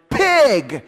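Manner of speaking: loud sharp yell of an insult; shouted insult. Retold or imitated. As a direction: bark it at the passing driver. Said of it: "she shouted".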